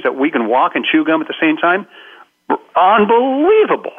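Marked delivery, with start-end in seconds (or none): 2.8-3.9 high, drawn-out marvel; mock amazement. Speaker marvelling that humans manage two things, mock amazed. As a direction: stretch it out in exaggerated wonder.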